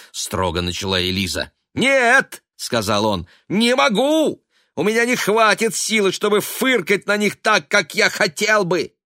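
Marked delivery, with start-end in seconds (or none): 1.7-2.4 громкое высокое «нет»; выкрикни отказ; крик. A narrator's reading. Сын кричит отказ. 3.5-8.9 высокий громкий крик; кричи от бессилия. A narrator's reading. Сын продолжает кричать.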